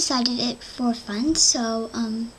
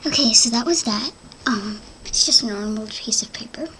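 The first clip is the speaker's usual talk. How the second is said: ASMR whisper. Acted. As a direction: whisper close to the mic. Whispered ASMR narration between sounds.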